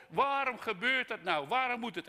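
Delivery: high, loud anguished demand; crying out to God. Retold or imitated. Preacher re-enacting his shouting at God, protesting. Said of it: "mij laat schreeuwen en schelden en brullen".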